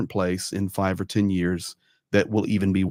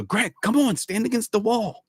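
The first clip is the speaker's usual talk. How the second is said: imitating the grannies, pitched much higher; high granny voice urging a friend to the wall; little grannies; 10 semitones higher than usual. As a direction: chirp it up high like an eager babushka.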